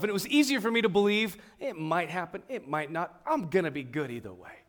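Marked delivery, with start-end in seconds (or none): 1.6-4.6 mildly detached, dropping off at the end; self-protective indifference. Retold or imitated. Talking oneself out of expecting much, mildly indifferent. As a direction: play down any hope. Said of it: "I just decided to insulate myself".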